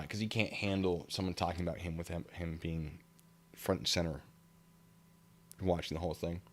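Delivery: ordinary talk, nothing marked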